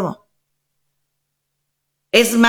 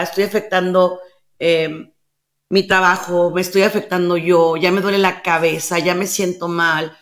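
low, understated confession to God; acted humble prayer, running on item by item; pleading prayer; 3 semitones lower than usual. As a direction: lay your troubles before God in a lowered voice. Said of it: "a los pies de Dios".

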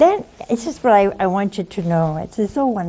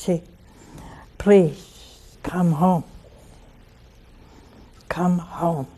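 gentle plea; 2 semitones lower, 4 dB quieter, slower than usual. Real, not acted. Pleading with sinners.

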